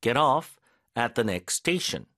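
"get off" said "ge-roff" with a flapped t. Shown as a demonstration. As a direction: flap the t in "get off" like a light r. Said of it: "T 발음은 리을 발음처럼 설단음".

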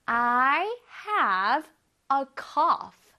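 slow, each word set apart by pauses; word-by-word drill. Shown as a demonstration. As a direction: pause after every word for students to echo. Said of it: "해볼게요".

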